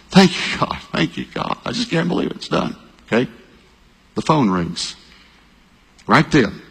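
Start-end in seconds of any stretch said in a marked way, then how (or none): 0.1-2.8 breathless thanks. Retold or imitated. Retold relieved thanks.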